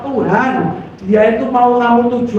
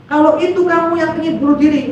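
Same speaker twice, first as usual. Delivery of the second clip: imitating a preacher, high projected voice; pendeta; 6 semitones higher than usual. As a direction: appeal from the pulpit, pitch raised. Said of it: "pendetanya maju ke depan ngomong gini". (menirukan seruan pendeta)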